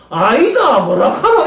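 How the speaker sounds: 경상도 사투리로 부인하기; Gyeongsang dialect denial. Retold or imitated. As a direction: deny it in Gyeongsang dialect, laughing a little. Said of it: "경상도 말로 하면".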